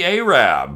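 long A opening Arab, rhyming with Ahab; two stressed beats in Arab, "AY-rab"; a singer's pronunciation. Retold or imitated. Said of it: "that's how he would have said it".

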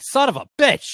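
loud curse, half laughing; exasperated outburst. Retold or imitated. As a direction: blurt it out, laughing in frustration. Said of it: "I'm like".

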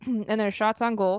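throat catching on cookie dough; coughing, choking on a bite. Real, not acted. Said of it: "choking on".

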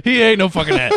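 high, hammed-up kid voice; mock kid voice. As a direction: mimic a bratty kid. Repeating the quote.

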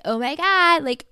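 high, loud, gushing girly mockery; hammed-up airhead voice; mocking valley girl. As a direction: parody a ditzy girl bragging. Mocking women who joke about gut trouble.

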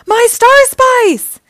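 very high, loud, drawn-out wail; anguished howl. A narrator's reading. Dreg sees his powder spilled, anguished howl. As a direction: howl it slowly in dismay. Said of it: "howled Dreg".

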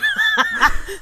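loud, high cackling laugh; cackle. Real, not acted. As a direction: let out a big high cackle. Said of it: "Do all of your friends cackle like you do?".

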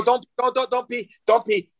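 a dad begging in mock panic; pleading. Dad begging daughter not pee.

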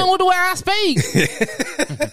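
high, drawn-out mock Southern twang; Southern accent. Imagined Southerner defending how they speak, mock Southern accent. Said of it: "someone Southern fighting that they don't hear".

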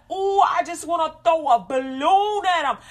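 loud, high mock-angry venting; hammed-up fantasy of pelting someone; frustrated ranting. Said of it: "you get all frustrated".

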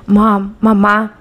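put-on slow, drawn-out Spanish in an American gringo accent; imitating her daughter's gringo Spanish. Mother imitating her daughter's gringo-accented Spanish, slow and drawn out. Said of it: "Pero lo dijo así bien gringo".

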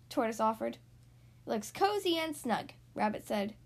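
animated picture-book narration with swooping emphasis; read-aloud to children. A narrator's reading. Host reading a story to young listeners, lively storytelling. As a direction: read a picture book to small children, stretching key words.

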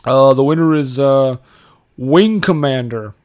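halting award presenter in a put-on American accent; Gerard Butler's American accent. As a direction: stumble through the nominees in a would-be American accent. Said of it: "I'm doing my best American accent".

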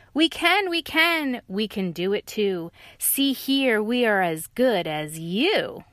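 excited dog and lion; eager insisting. Acted.

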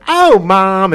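put-on gleeful high kid voice; delighted kids. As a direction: squeal it like happy kids. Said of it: "the kids would be like".

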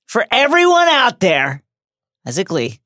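lofty proclamation, slowed; grand announcer. Pretend. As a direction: proclaim it like a tribute. Mock tribute speech.

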